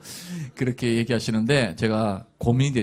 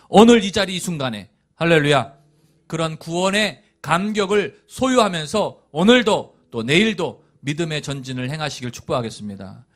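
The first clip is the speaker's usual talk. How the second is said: ordinary delivery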